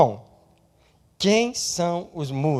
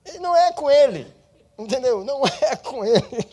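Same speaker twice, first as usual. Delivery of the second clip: laughing; 10 semitones higher, 7 dB louder than usual. Real, not acted. Laughs at own point.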